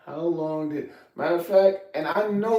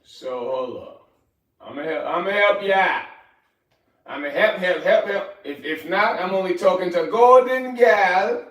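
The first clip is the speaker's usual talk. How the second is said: put-on Jamaican accent; 4 semitones higher, 6 dB louder than usual. Streamer impressing Golden Gal in chat, put-on Jamaican accent. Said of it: "got me doing my best Jamaican accent".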